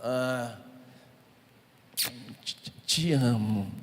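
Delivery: reluctant, halting te amo, forced out; wife mumbling a half-hearted love you; grudging I love you. Retold or imitated. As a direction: say it like you don't mean it. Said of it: "Bem, ela".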